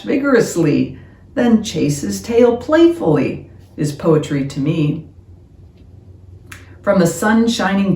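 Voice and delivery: measured, expressive poem reading; poem recitation. Acted. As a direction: recite with lifted openings and falling refrains. Reads a poem aloud.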